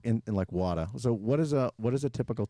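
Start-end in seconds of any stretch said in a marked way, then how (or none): 0.5-0.9 "water" said as "WAW-tah"; Boston R-less "water". Shown as a demonstration. Boston host showing Texans how we say it, "water" R-less. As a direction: drop the final R of "water". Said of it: "We say, like".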